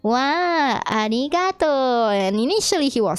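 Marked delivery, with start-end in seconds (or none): 0.0-2.1 higher-pitched, drawn-out gratitude; acted delight. Birthday boy thanking friends, delighted. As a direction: gush with mock wonder.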